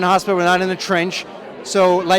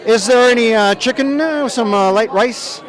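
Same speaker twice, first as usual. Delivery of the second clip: asking the chef; 4 semitones higher, 4 dB louder, slower than usual. Retold or imitated. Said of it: "I would be like".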